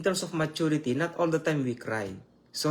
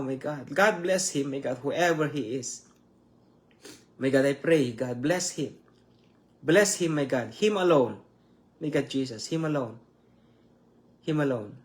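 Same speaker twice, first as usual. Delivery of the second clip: prayer winding down. Real, not acted. Prayer winds down to amen.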